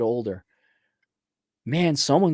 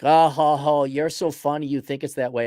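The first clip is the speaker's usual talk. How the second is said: mocking laughter. Critics laughing at his parenting rules, mock laughter. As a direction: imitate scoffers laughing at you. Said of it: "people laugh at me. They're like".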